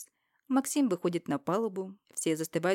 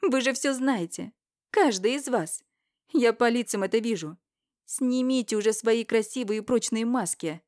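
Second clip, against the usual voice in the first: higher, much louder shout; 5 semitones higher, 6 dB louder than usual. Acted. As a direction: yell at everyone. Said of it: "Кричу онемевшим присутствующим". (крик, выше и громче)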